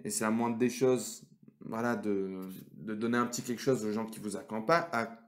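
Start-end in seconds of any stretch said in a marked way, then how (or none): 2.7-5.2 slipping into a Quebec French accent; a touch of Quebec French accent. Real, not acted. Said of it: "parti sur un accent québécois d'un coup".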